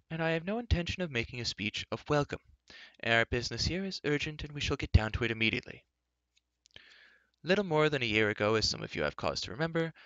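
put-on high-pitched old man's voice; old enchanter, brusque. Old enchanter addresses the gathered council, brusque.

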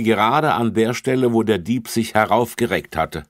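put-on officer explains the footprint to children; officer explaining. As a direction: explain patiently.

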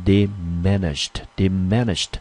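"diminished" twice, each with stress on MIN; second-syllable stress. Shown as a demonstration. Teacher showing students how diminished is read, stressed on MIN. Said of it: "重音落在第二个音节".

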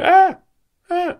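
short, high-pitched "ah" yelps. Pretend. Box opener squawks at card art, high yelps.

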